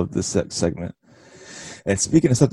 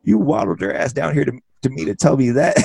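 imitating Britt Baker; 6 semitones higher than usual. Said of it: "She goes".

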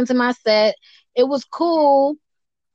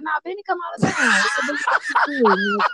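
excited quote; 3 semitones higher than usual. Retold or imitated. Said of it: "They was like".

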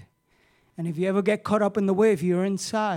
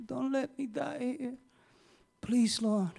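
hushed, pleading prayer, much softer; quiet prayer; 11 dB quieter than usual. Retold or imitated. A drowning man praying to God, hushed and pleading. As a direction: softly beg God for your life. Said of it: "And I'm praying".

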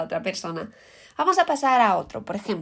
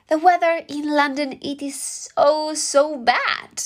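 higher, whiny moan about the weather; grumbling about the London weather; mock complaint; 6 semitones higher, much slower than usual. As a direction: complain about rainy London, a bit hammed-up.

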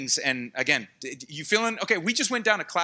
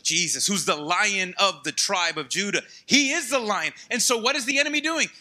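ordinary talk, nothing marked

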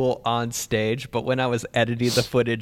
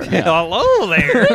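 laughing Obi-Wan echo; 5 semitones higher, 6 dB louder, slower than usual. Pretend. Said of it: "do an Obi-Wan".

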